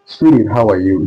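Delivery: SWEDEN, meant as sweetie, with a D sound for the T; flap T as D. Shown as a demonstration. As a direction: soften the T to a D in SWEDEN. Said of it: "in the D aspect".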